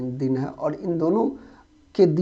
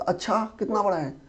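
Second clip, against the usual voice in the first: higher-pitched, mildly amazed question; acted surprised question; 4 semitones higher, 3 dB quieter than usual. Listener hearing about a huge snake, mildly surprised. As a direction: react to a friend's tall tale with wonder. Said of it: "और एक आश्चर्य सूचक".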